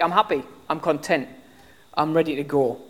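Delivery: softening into a low, quiet close; content and ready. Retold or imitated. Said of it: "He's like".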